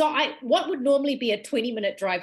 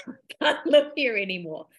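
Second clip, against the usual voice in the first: retold ultimatum with a laugh in it; lightly laughing mock ultimatum; laughing retelling. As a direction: quote the ultimatum through amusement. Laughs repeating partner's ultimatum.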